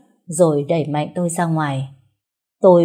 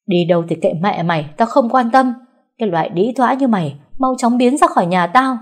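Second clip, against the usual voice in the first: loud, much higher, contemptuous; furious shout; 5 semitones higher, 4 dB louder than usual. Acted. Mother-in-law throwing out the bride, screaming. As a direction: drive her out with insults.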